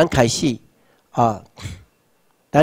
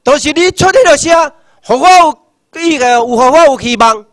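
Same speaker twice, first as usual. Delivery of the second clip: grandchild's praise; 11 semitones higher, 7 dB louder than usual. Retold or imitated. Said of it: "有一天你的子孙讲".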